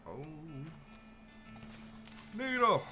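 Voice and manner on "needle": high excited yell; excited shout. Real, not acted. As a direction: call it out with glee. Excited call of a name.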